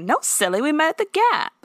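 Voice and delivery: high, giggly mock-girly correction; lightly voiced bubbly twenty-year-old; airy young girl. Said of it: "She's like".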